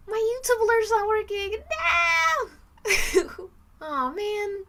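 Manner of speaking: high whiny cry of dismay; mock wail. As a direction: wail it like a hammed-up tragedy. Mock dismay at broken alert.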